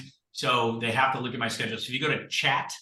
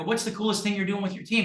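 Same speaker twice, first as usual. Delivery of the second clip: high, eager curiosity, acted out; mock admiration; 8 semitones higher than usual. Coaxing secrets from another agent, high mock admiration. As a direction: ask it like a wowed fan, voice up high.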